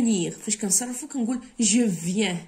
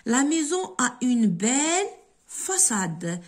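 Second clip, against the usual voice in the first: slow dictation; 3 semitones higher, slower than usual. Shown as a demonstration. Dictates exercise sentence.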